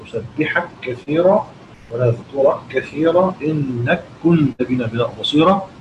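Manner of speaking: نسبحك كثيرا run together on one doubled k; measured reading, doubled k in نسبحك كثيرا; merged kaf. Shown as a demonstration. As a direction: merge the k's in ونذكرك كثيرا and إنك كنت. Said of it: "أدغم الكاف المفتوحة في الكاف".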